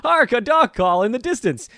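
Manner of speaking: high, theatrical herald voice; hammy stage actor. Pretend. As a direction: proclaim it like an old stage actor.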